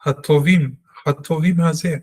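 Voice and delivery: הטובים with a light, reduced ha. Shown as a demonstration. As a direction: say הטובים with a gentle shortened ah. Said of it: "It's a patach with a shwa, which means it's a diminished ah sound".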